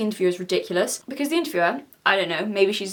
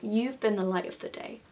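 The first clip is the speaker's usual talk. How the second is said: mocking gushing hush; 8 dB quieter than usual. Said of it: "And you".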